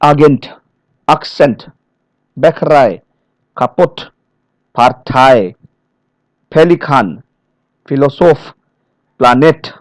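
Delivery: each word alone, landing on the end, as in "Agent, Akzent, Bäckerei"; final-syllable stress. Shown as a demonstration. Trainer letting learners observe the final syllable, final-syllable stress. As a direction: lean on the last syllable of "Partei, Pelikan, Philosoph". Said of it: "able to observe the final sound".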